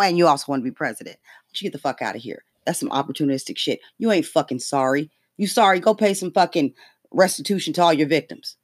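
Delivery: ordinary talk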